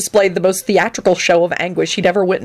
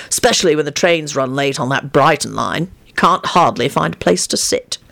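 low-key practical complaint; matter-of-fact; 3 semitones lower than usual. Acted. Lupin complains about the Brighton trains, matter-of-fact. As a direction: state it evenly, no drama. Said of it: "told Arthur matter-of-factly".

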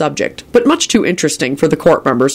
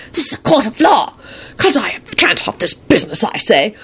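high, raspy crone voice; indignant old witch; 8 semitones higher than usual. Acted. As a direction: object like an outraged old witch.

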